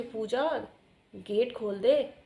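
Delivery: lightly voiced aunt calling out, drawn out; mild imitation of a drawn-out call; imitating aunt calling. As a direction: call out slowly, as the imagined aunt. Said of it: "ये aunty ना आवाज़ लगा रही है मुझे".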